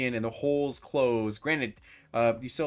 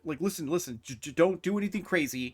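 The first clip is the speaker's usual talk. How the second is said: higher, stammering plea; intimidated pleading; 4 semitones higher than usual. Acted. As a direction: hastily talk down someone threatening you. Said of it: "you're able to intimidate him".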